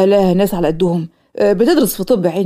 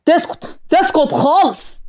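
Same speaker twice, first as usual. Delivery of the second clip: higher, slowly drawn out sneer; mocking put-down; 7 semitones higher, slower than usual. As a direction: tease him, stretch the words. Jaser mocking Omar.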